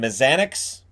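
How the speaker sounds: "Mazanec" ending in a "ks" sound; alternative pronunciation. Shown as a demonstration. Host trying out a goalie's name, alternative pronunciation. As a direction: say "Mazanec" as muh-ZAN-icks, rising. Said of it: "different ways to pronounce it".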